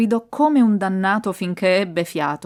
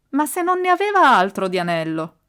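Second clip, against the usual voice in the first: raised, louder protest; loud exclamation; 5 semitones higher, 6 dB louder than usual. A narrator's reading. Ardo objects aloud from inside the tomb, loud exclamation. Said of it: "esclamò a voce alta".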